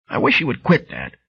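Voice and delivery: lightly voiced frail old lady; old woman voice. Bright Girl voiced.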